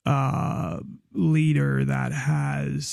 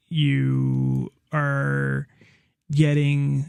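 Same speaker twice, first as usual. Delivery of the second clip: slipping into a light pirate growl on are; accidental pirate twang on are getting; much slower than usual. Real, not acted. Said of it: "I just sounded like a pirate kinda there".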